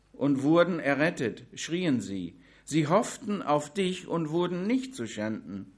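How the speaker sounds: solemn, deliberate psalm reading; scripture reading. Acted. Preacher reading Psalm 22 to the congregation, solemn.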